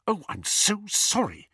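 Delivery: mock-sorry, annoyed at him; sarcastic hiss. A narrator's reading. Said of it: "hissed Hermione".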